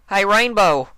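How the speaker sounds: high, loud call of her name; shout. Acted. Applejack shouts to rouse frozen Rainbow, loud and high. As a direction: yell to snap her out of it. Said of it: "Applejack shouted".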